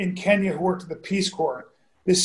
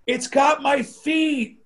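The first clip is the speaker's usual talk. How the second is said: retold scream; 5 semitones higher, slower than usual. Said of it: "and screams and disappears".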